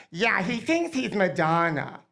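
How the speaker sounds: slow, mildly mocking quote; imitated sneer. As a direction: draw it out, mildly disparaging. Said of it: "said it in a negative way".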